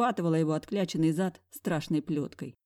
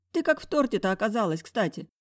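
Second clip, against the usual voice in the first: curious friend; 4 semitones higher than usual. Acted. Friend voiced high.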